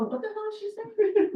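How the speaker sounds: high, scoffing disbelief; mocking snicker. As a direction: sneer it like a snickering onlooker. Room snickering at official.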